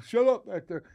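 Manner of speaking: high, loud mock shut up; mock snap. Imitating Andy scolding Blay in the back seat, high and loud. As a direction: bark it at the kid in the back. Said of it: "you're looking at Blay like".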